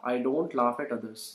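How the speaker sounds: very slow, word by word for learners; teacher spelling out the sentence for the class, very slow; slow model sentence. Shown as a demonstration. Teacher repeats answer slowly.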